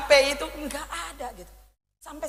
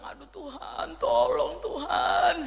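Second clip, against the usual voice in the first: retold desperate prayer; 3 semitones higher, 4 dB quieter, much slower than usual. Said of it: "Saya bilang".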